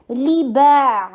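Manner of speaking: لی با with a clear ee in لی; li not le. Shown as a demonstration. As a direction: say لی با with ee, never لے. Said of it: "لے نہیں، لے با". (لی با، لے نہیں)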